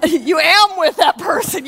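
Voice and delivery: laughing over a mix-up of am; grammar slip. Real, not acted. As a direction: say am where are belongs, with a laugh. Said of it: "You are with that person".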